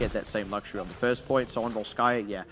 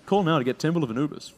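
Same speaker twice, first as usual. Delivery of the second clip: hard sell ad. Pretend. Mock infomercial bit about Temple.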